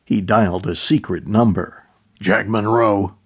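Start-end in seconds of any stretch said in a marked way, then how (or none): 2.2-3.1 half-awake, groggy answer; just woken by the phone, groggy; sleepy voice. Acted. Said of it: "A sleepy voice answered".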